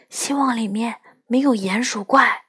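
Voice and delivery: hushed whisper. Acted. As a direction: whisper nervously in the dark. Sneaking into a dark tunnel.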